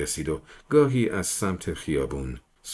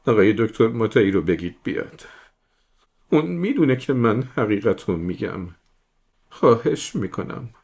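louder, higher desperate plea; distraught begging; 3 semitones higher, 4 dB louder than usual. Acted. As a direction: beg the captain to fetch the doctor. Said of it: "با پریشونی به التماس افتاد".

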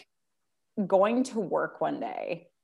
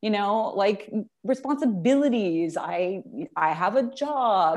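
mock excuses. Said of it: "nine thousand excuses".

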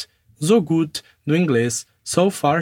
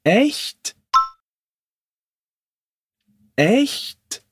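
higher, rising "Echt?" in happy surprise; surprised question; 5 semitones higher than usual. Shown as a demonstration. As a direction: ask "Echt?" as if delighted. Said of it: "Repete comigo". ("Echt?" surpreso e alegre)

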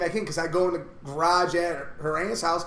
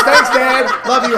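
loud, higher, laughing imitation; mock cheery daughter; 6 semitones higher, 11 dB louder, much slower than usual. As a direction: imitate a kid calling out thanks, loudly. Acts out daughter's cheery hang-up.

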